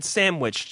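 "sandwich" said as "samwich"; slipped pronunciation. Retold or imitated. Host catching caller's slip, "sandwich" said "samwich". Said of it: "Now you just said sandwich".

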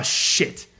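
breathy alarmed whisper; whispered oh shit. Retold or imitated. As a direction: whisper it in dismay. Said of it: "So I'm like".

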